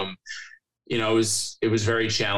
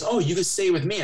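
put-on lifted, sing-song girly voice; a high, eager offer; mock high Macy voice; 9 semitones higher than usual. Coworker offering a couch, voiced high and eager.

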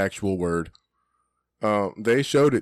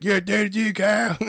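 much higher cartoon kid voice; Cartman impression; 12 semitones higher than usual. Teasing a kid named Kyle, high Cartman voice. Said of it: "And I'm like".

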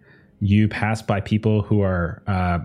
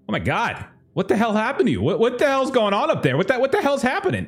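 much higher, alarmed stranger voice; shocked onlookers; faster than usual. Acted. Bystanders on the stairs shocked by the bloody man, much higher and alarmed. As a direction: gasp it out like a horrified bystander. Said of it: "people are looking at you like".

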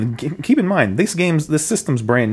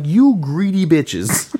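mock outraged; 8 semitones higher, slower than usual. Insult voiced to clerk.

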